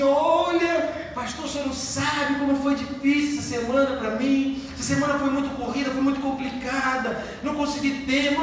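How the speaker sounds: high, whiny excuse to the pastor; whiny complaint. Retold or imitated.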